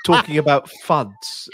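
stammering mock executive who cannot follow; baffled BBC executive. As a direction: stumble along, politely lost. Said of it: "I'm a B B C executive".

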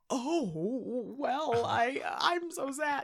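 hammed-up fake sadness, rising high; mock melodrama. Imitating an actor's overwrought grief to a friend. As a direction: overact a sad ghost-movie face. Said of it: "it's those faces where he's like".

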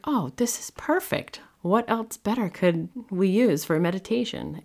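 bright high delight at a perfect find; excited pitch jumps up high. Retold or imitated. Mom delighted by meditation idea.

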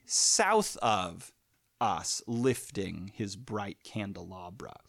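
"south" stressed on its first beat, slow reading; trochee on south. Shown as a demonstration. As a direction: lean on "south" to open with a trochee. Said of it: "we start with a trochee".

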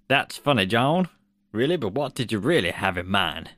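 lightly put-on American accent. Shown as a demonstration. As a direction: attempt an American voice for a famous director. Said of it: "here's my American accent".

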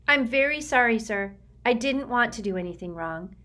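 put-on a frightened boy pleading; nervous Sticky. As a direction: recite a memorized apology, eager to please. Sticky recites memorized speech.

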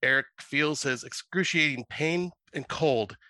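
steady, measured reading of a spooky tale; story narration. Acted. Reading his horror story to the podcast hosts, measured storyteller voice. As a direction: read it like a campfire horror story.

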